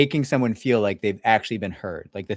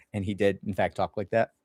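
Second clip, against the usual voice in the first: ordinary talk, nothing marked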